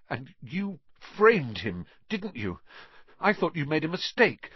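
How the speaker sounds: angry accusation. A narrator's reading. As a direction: throw the blame at him. Harry accusing Riddle angrily.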